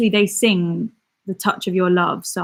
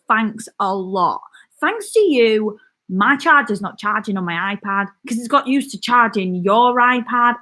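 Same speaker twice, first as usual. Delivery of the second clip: mock complaint. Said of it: "I bloody love that video".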